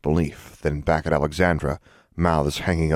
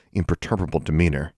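usual speaking voice

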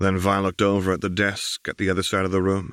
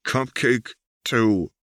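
assuring; 4 semitones higher, slower than usual. Acted. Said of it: "Vi assured her".

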